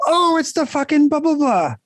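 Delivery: high, put-on mocking blurt; mock exclamation. Host retelling his reaction during the movie twist, high mock blurt. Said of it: "I'm like".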